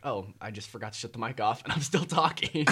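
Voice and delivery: rising alarmed realization; realizing dismay. Retold or imitated. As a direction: voice jumps up in alarm. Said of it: "I was like".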